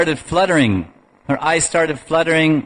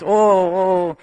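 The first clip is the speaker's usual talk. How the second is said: imitated baby gurgle; 3 semitones higher than usual. Baby Balaram starts communicating with Krishna, imitated gurgling. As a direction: imitate a newborn's little happy noises. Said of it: "making little gurgling sounds".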